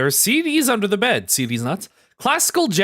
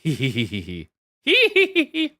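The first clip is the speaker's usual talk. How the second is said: cartoon laugh. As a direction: giggle like a cartoon. Giggle reading text.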